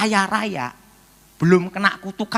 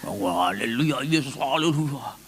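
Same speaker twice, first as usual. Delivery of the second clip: unconvinced praying; 3 semitones lower, 3 dB quieter than usual. Retold or imitated. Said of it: "ada yang doanya".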